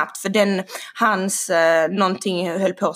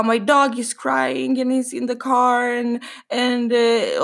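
mildly whiny imitation of a tearful woman; imitating someone starting to cry; retold crying; 3 semitones higher, slower than usual. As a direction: draw the words out, mock-tearful. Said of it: "så börjar hon gråta".

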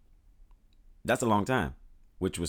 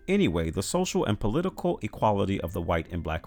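Lincoln quoting; 4 semitones higher, 5 dB louder than usual. Retold or imitated. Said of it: "he said".

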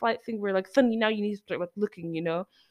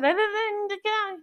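quoting her order; 10 semitones higher than usual. Retold or imitated. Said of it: "and she's like".

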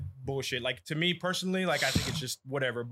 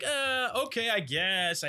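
reluctant agreement; 5 semitones higher, slower than usual. Retold or imitated. Acts out young star reluctantly agreeing.

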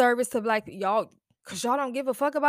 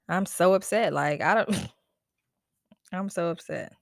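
exasperated laugh through words; laughing in frustration; 4 semitones lower than usual. Real, not acted. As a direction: laugh it off, defeated.

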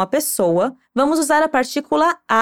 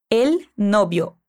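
slow model answer; 4 semitones lower, much slower than usual. Shown as a demonstration. Teacher slowly modelling the answer for the student. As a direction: stretch out El novio slowly, each syllable clear.

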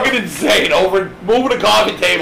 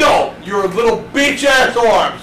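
slow taunting shout. Retold or imitated. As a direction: drag out the insult. Retold taunt back.

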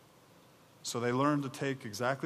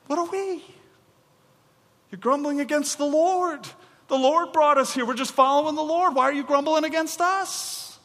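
indignant Moses; 12 semitones higher, 6 dB louder than usual. Acted. Moses indignant retort acted.

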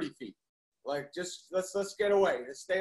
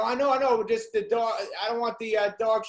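insistent; 4 semitones higher, 6 dB louder than usual. Retold or imitated. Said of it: "I go".

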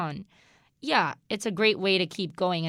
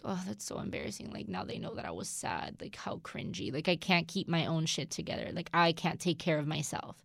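embarrassed inner voice; 3 semitones lower, 7 dB quieter than usual. Retold or imitated.

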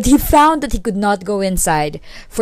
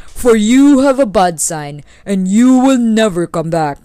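loud, deliberate warning; forceful, ominous prophecy; warning lightning; 5 dB louder than usual. Acted. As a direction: pronounce doom as the mighty lightning. Lightning warns the traveller.

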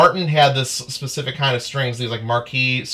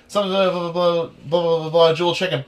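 chicken ad read; 5 semitones higher than usual. Retold or imitated. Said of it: "a read for a chicken ad".

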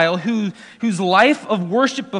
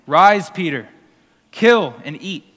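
voice from heaven; 6 dB louder than usual. Acted. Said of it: "there came a voice to him".

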